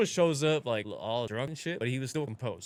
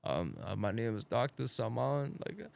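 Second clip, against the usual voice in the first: soft, hesitant fake Persian accent; 4 dB quieter, slower than usual. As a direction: mumble it as a fake Persian doctor. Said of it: "fake ass Persian accent".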